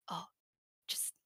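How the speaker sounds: soft, half-whispered plea to tone it down; hushing a friend. Retold or imitated. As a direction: hush him gently on the train. Asking loud friend to hush.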